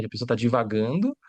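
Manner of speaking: ordinary talk, nothing marked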